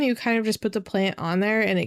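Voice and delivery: talking through hiccups; words broken by hiccups. Real, not acted. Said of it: "excuse me, I have the hiccups".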